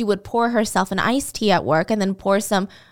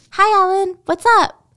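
higher and louder, bright overdone hello; forced cheer; 10 semitones higher, 6 dB louder than usual. Retold or imitated. Waitress greeting the manager she thinks will fire her, with forced cheer. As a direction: cover dread with fake brightness. Dee greeting boss before firing.

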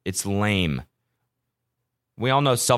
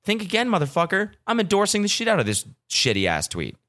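mock taunt; 10 semitones higher than usual. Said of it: "was like".

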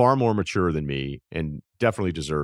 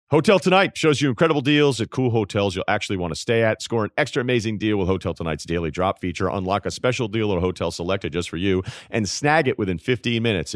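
upbeat, louder sponsor read; 4 dB louder than usual. Acted. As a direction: sell the hotel deals with energy. Host reads a sponsor ad.

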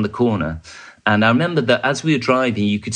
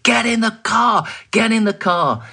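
retold shout; 13 semitones higher than usual. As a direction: bellow the order to get in the car. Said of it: "and shouted".

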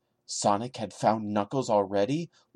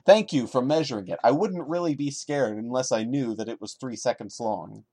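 sarcastic thanks; 2 semitones higher than usual. Real, not acted. Mocking the writer's timing detail.

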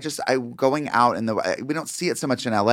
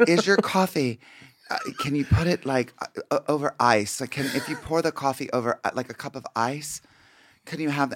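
hesitant, halting customer, softer; lightly voiced confused customer; mimicking fumbling customer; 4 dB quieter than usual. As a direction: fumble through a simple order. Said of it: "She goes".

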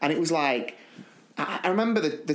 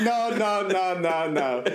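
retold dismay; 3 semitones higher, slower than usual. Driver's retold reaction to the crash.

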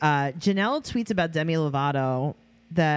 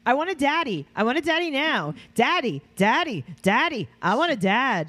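put-on higher, childlike whine for daddy; whiny Sophia; 6 semitones higher than usual. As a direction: beg like a demanding little kid.

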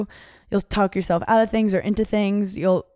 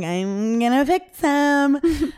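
mock determined; 7 semitones higher, much slower than usual. Mocking her past naive self.

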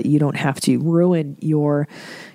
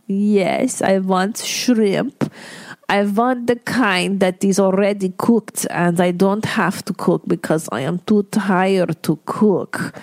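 sick mother; 3 semitones higher, slower than usual. Retold or imitated. Mother wants cooked shrimp because she is too tired to cook, slow and whiny. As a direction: drag it out like a tired, demanding invalid. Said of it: "she goes".

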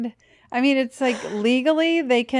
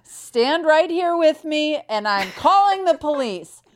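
mock stern order; 5 semitones higher than usual. Co-host detaining a pretend wrongdoer, mock stern ordering. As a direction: play the officious citizen making an arrest. Acting out a citizen's arrest.

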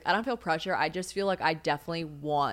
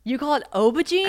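higher-pitched incredulous question; real disbelief; 6 semitones higher, 4 dB louder than usual. Real, not acted. American girlfriend hearing the British word, incredulous. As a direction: question the odd word in amazement.

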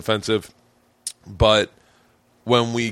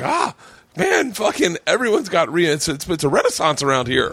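excited; 5 semitones higher than usual. Retold or imitated. Acting out excited reaction.

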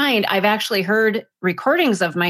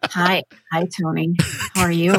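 playful lowered sultry phone greeting; phone sex operator; 3 semitones lower than usual. Shown as a demonstration. Co-host plays along with host's teasing, phone operator voice. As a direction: drop the voice for a mock seductive hello. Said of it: "like a phone sex operator".

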